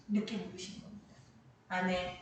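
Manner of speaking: ordinary talk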